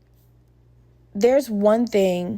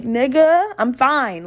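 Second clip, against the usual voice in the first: higher, louder first word, easing off; exasperated retort; 4 semitones higher, 3 dB louder, slower than usual. Retold or imitated. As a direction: push back on unwanted concern. Exasperated retort to friend's concern.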